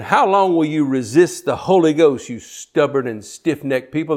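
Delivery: preacher shouting a rebuke at a crowd; Stephen's rebuke, cried out; rebuking cry. Retold or imitated. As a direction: cry out against the stubborn crowd. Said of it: "And he said".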